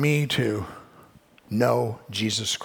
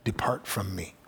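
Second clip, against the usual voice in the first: the Lord's verdict; 4 semitones lower, 6 dB quieter than usual. Acted. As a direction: lower and much softer, grave judgement. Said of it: "he'll say".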